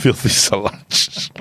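slow, drawn-out sneer; slow relish. Retold or imitated. Repeating the rider's nickname slowly, relishing it. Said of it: "I don't know why I called him that".

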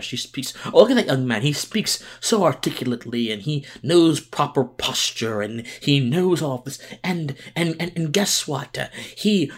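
lightly put-on British aristocrat, admiring and affected; gushing over a well-spoken youngster in hammed-up posh praise; mock British aristocrat. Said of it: "you sound like a British aristocrat".

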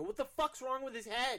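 high laughing yell of alarm; loud, high, alarmed outburst with a laugh; panicked yell. Retold or imitated. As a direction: shout it half laughing, freaked out. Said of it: "and I go".

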